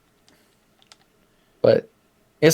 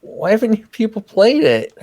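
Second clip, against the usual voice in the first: excited yelling; 7 semitones higher than usual. Real, not acted. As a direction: rant at people who haven't played it. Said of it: "what are you yelling at me for".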